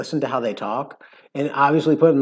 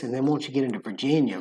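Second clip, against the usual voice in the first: ordinary delivery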